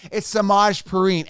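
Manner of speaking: "Samaj Perine" firmly, suh-MAHZH peh-REEN; insisted pronunciation. Shown as a demonstration. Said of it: "it's not how you pronounce his name".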